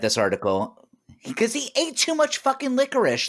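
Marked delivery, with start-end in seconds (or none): 1.3-3.3 squeaky cartoon voice, much higher; high squeaky mocking voice. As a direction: pitch way up like a cartoon.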